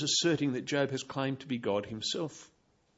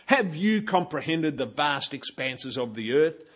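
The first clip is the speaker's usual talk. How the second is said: sarcastic rebuke; 3 dB louder than usual. Pretend. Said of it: "full of sarcasm and rebuke".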